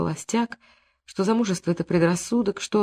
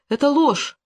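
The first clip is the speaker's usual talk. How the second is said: возмущённо; 9 semitones higher, 3 dB louder, slower than usual. A narrator's reading. Настя возмущённо отрицает.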